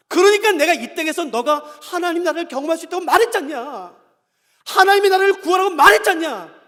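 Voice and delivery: put-on God scolding His complaining children; acted stern rebuke. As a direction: reproach them forcefully, driving each phrase home.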